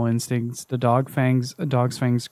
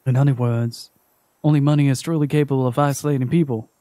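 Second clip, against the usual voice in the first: stern debt collector; faster than usual. Acted. Collector to Naomi, lightly voiced and stern. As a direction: lay down the law like a calm collector.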